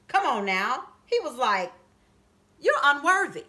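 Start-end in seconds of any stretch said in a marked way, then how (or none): 2.6-3.4 disdainful. Retold or imitated. Goliath sneering at young David, disdainful. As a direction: look down on him as you say it. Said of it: "he disdained".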